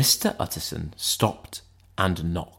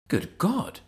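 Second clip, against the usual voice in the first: shocked thought; 10 semitones higher, 5 dB quieter than usual. A narrator's reading. Utterson's shocked private thought.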